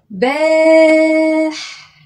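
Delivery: باح- sung out long and high; long vowel held. Shown as a demonstration. Teacher holding the long vowel in صباح. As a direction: hold the long a like a song. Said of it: "هنا في مد وممدود".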